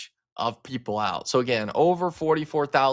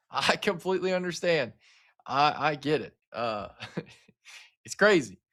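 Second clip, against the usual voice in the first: laughing. Real, not acted. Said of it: "I'm not laughing at the severe weather".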